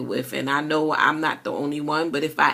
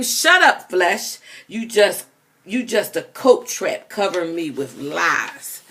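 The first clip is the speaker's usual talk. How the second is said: screaming; 2 semitones higher, 4 dB louder, slower than usual. Acted. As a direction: yell it right at your own flesh. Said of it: "I scream".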